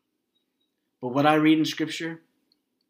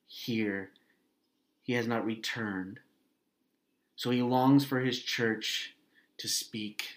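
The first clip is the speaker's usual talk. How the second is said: prayer. Acted. Pastor praying aloud over the congregation, an earnest plea. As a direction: plead with God for the church.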